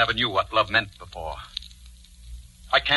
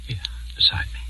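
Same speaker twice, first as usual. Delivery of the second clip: whisper; faster than usual. Acted. Lover seating her close.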